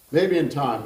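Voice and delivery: put-on Kentucky gentleman's fond pronouncement, Kentucky accent; Kentucky voice, firm and fond. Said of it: "I'm going to attempt that kind of accent".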